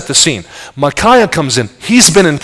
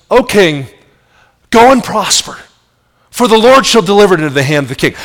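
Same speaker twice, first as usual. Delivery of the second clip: mock-flattering, a touch higher; facetious; 4 semitones higher than usual. Prophet baiting the king, mock-flattering. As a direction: sweet-talk the king with a wry edge. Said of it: "He's speaking fac-, facetiously".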